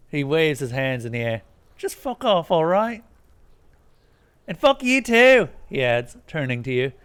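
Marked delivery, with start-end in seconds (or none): 1.8-5.5 high, loud furious rant; angry Kuno rant. Acted. Kuno ranting at the player, furious. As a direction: rage at the lame cop.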